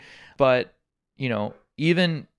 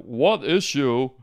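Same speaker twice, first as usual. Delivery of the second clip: Bernie impression; 3 semitones higher, 5 dB louder than usual. Hammed-up Bernie-style rant. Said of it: "He's like".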